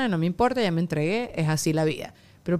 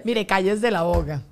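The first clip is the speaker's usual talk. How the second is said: slow, drawn-out hush order; slow playful shush; slow mock scolding; slower than usual. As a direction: lay it down slowly like a stern monk. Joking mock monk scolding.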